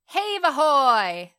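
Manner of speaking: high, drawn-out hauling shout; sailors' shout. A narrator's reading. Sailors hauling chests from the hold, shouting. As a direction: bellow it long, like hauling on ropes. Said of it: "they shouted".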